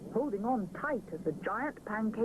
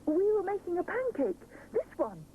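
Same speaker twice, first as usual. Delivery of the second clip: explaining; 10 semitones higher than usual. Acted. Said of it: "Rupert explains".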